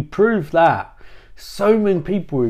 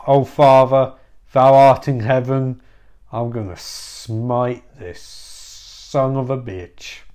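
solemn Jesus; 2 semitones lower, slower than usual. Acted. Jesus solemnly invokes his Father.

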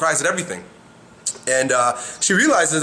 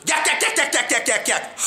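high-pitched yak-yak cackle; demonstrating a tight cackling laugh; mock laughing; 8 semitones higher than usual. Shown as a demonstration. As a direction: cackle out the yaks high and quick. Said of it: "and what do you do?".

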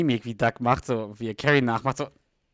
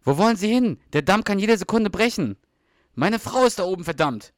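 higher and louder, a desperate action-hero yell; shouted film scene; 7 semitones higher, 6 dB louder than usual. Retold or imitated. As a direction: shout it over a bursting dam. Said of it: "die Szene aus dem Film". (laut und hoch gerufen, wie im Actionfilm)

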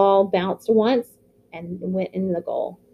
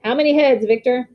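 higher, louder call across the bus; coach calling out; 4 semitones higher, 4 dB louder than usual. Acted. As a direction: call out to the team captain over the noise. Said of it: "Coach called out".

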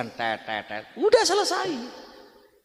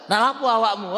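rough asking; 7 semitones higher than usual. Shown as a demonstration. Spouse asking the wrong way, rough and confrontational. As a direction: snap the question rudely. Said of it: "Kalau kasar".

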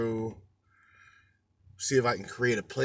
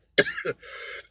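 coughing fit. Real, not acted. Coughing fit after smoking.

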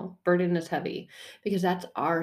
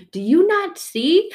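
pleading question; 12 semitones higher, 8 dB louder, slower than usual. Acted. Exasperated plea to God.

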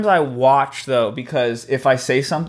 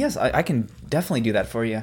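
quick, soft polite helper; customer service voice; 4 semitones lower, 5 dB quieter, faster than usual. Pretend. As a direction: rattle off the eager service line. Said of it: "it's customer service voice".

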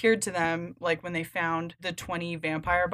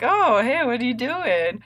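higher, louder creepy Varvara; 6 semitones higher, 5 dB louder than usual. Retold or imitated. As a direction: play it like a sly, creepy Varvara sneaking up. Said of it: "I like this Varvara you're playing".

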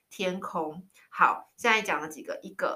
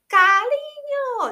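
retold yell; 9 dB louder, much slower than usual. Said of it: "对着我展开双臂大喊".

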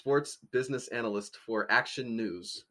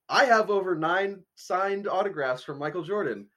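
mock sports fan; 6 semitones higher, 3 dB louder than usual. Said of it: "that's how he's talking about it".

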